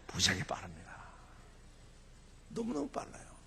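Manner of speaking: hushed stage whisper; whispered mock confidence; confidential whisper. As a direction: let the audience in on a secret. Letting audience in on a secret.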